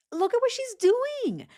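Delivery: high, exasperated cry of disbelief; exasperated squeal. Real, not acted. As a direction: voice jumps way up in disbelief. Exasperated reaction to the suspect.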